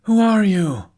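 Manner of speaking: loud, high challenging shout; shouted challenge. Acted. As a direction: yell it out as a challenge into the dark. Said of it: "he shouted".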